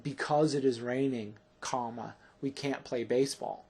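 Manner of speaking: brief breaks either side of "comma"; comma spoken aloud. Shown as a demonstration. Teacher dictating punctuation to students, comma spoken aloud. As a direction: read it out with "comma" said as a word after "raining". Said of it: "So notice, um, in this sentence".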